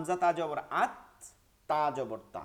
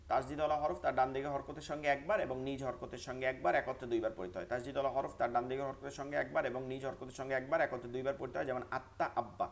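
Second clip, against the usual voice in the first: quick rule recital; faster than usual. Shown as a demonstration. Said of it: "তাহলে নিয়মটা একটু পড়েন".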